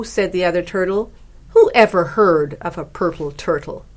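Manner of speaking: lively, animated picture-book narration; story reading to children. A narrator's reading. Author reads her turtle book to radio listeners, animated storytelling. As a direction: read it like a picture book, emphatic, swooping pitch.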